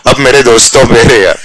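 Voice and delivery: hammed-up dramatic call; mock scary call. Shown as a demonstration. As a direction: pretend to frighten the class. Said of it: "डराता हूँ, रुक".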